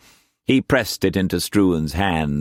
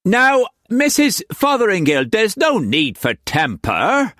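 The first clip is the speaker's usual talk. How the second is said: tentatively; 13 semitones higher, 3 dB louder than usual. A narrator's reading. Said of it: "Quance said tentatively".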